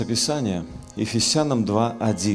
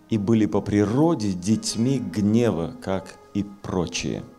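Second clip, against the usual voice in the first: echoing, boomy reverb; inside a barrel; 3 semitones higher, 4 dB louder than usual. Real, not acted. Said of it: "Звук немножко как в бочке".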